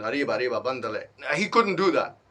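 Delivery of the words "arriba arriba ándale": quick demo of a put-on Mexican Spanish accent; mock Spanish accent. Shown as a demonstration. Showing up the fake Amigo scammer, mock Spanish accent. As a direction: toss off a playful Spanish-accented catchphrase. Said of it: "I can make a better Amigo accent".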